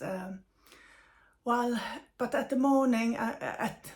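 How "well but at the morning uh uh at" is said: speaking while holding back breath; tight, held breath, fighting tears. Real, not acted. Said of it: "sorry, I'm just holding my breath".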